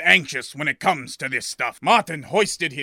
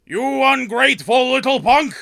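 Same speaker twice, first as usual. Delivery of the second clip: furious shout; 8 semitones higher, 4 dB louder than usual. Acted. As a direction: yell it high and loud at the boy. Shopkeeper curses departed boy.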